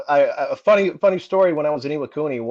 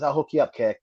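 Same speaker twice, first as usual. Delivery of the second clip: lightly imitated Boston accent; a sergeant's promise in Boston accent; Top McGrath. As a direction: put on a mild Boston accent. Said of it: "He had that Boston accent".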